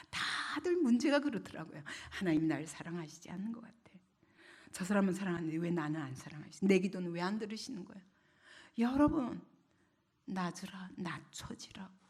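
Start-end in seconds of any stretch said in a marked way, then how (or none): 2.1-8.0 low, quick, muted complaint; discouraged believer. Acted. Believer complains of unanswered prayer, quietly downcast. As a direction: grumble softly, mildly hurt.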